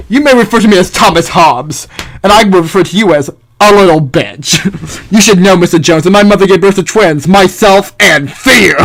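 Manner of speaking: lightly voiced haughty philosopher, scornful; Thomas Hobbes. Philosopher answers those who say he can't speak, lightly voiced disdain. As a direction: put on a hint of a disdainful thinker.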